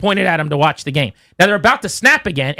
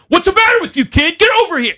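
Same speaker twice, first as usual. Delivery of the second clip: much higher, louder mock bark at the ball boys; imitating referee yelling at kids; 13 semitones higher, 3 dB louder than usual. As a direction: yell at the kids like a bullying ref. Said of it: "He's yelling at the ball boys".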